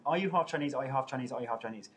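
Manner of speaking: repeating the question, fading each time; nagging viewer question, winding down; mock insistent repeating. Reading a viewer's repeated question in a mock nagging tone. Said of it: "you've asked us three times".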